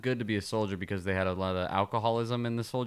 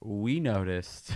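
put-on British accent; 5 dB quieter, much slower than usual. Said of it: "it's my British".

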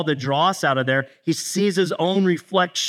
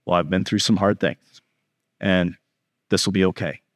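calm, lower-pitched reassurance; chill; 8 semitones lower than usual. Acted. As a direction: take it easy, low and unbothered. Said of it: "so chill right now".

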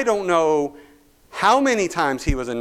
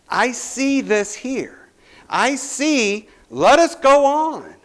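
rising higher and louder to a call; preaching build; 10 semitones higher, 4 dB louder, slower than usual. Acted. Preacher urging the congregation forward. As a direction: climb to the rallying call.

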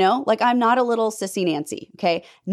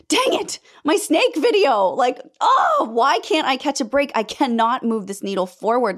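higher, exasperated groan of a thought; annoyed wail at bad luck; frustrated outburst; 5 semitones higher than usual. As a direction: throw up your hands, why me. Retold frustrated thought in hospital.

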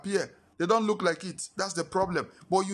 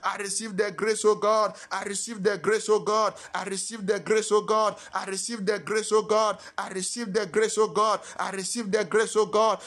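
fervent prayer; 3 semitones higher than usual. Acted. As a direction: chant each line with fervor. Call and response prayer.

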